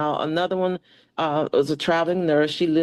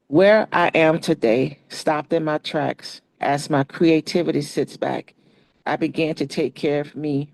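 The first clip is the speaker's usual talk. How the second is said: poem recital. Acted. Reads her own poem aloud.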